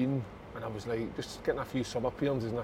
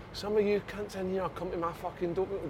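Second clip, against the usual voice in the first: higher-pitched mock telling-off; put-on high voice of a complaining coach; imitated coach's rant; 7 semitones higher than usual. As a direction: imitate an indignant manager. Acting out coach's dressing-room rant.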